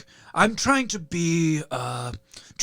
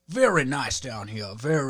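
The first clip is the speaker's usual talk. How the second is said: lightly put-on genteel Virginia accent; 4 semitones lower than usual. Comic trying to get into the accent, tentative Virginia Southern. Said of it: "try to get into the accent".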